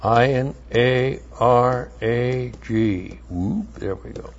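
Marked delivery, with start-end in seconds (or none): 0.0-3.2 "I N A R A G" spelled slowly and softly; spelling out letters. Shown as a demonstration. Teacher spells a Hebrew word for the class.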